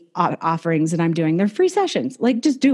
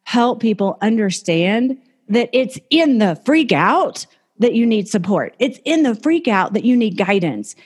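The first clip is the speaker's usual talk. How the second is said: exasperated inner thought; 3 semitones higher than usual. Retold or imitated. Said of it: "I was just like".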